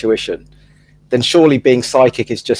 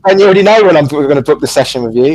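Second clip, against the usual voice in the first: teasing question that breaks into laughter; mock-asking a psychic why they need bookings; mocking through laughter; 3 semitones higher, faster than usual. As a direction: needle a psychic while cracking up.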